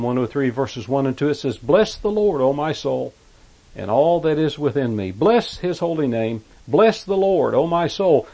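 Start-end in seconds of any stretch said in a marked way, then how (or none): 1.6-8.3 raised, exultant psalm reading; preacher declaiming a psalm; forceful scripture reading. Acted. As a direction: ring out each "Bless" high. Reads psalm aloud with force.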